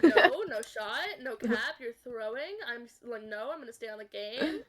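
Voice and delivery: mock Valorant gamer accent; imitated Valorant accent. Gamer refusing mom's bedtime order, in imitated Valorant accent. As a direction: lightly put on a Valorant accent. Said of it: "like, the Valorant accent thing".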